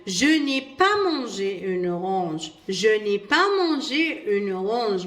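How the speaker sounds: very slow, each French word laid out clearly; slow model reading. Shown as a demonstration. Teacher reads the example sentence to pupils, slowly. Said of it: "واش تقول لي؟".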